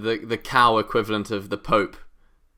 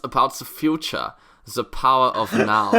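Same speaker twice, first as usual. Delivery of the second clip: a hint of a self-help preacher; mock guru wisdom; 3 semitones higher than usual. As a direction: play the wise teacher, half in jest. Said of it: "I really hoped it was something like".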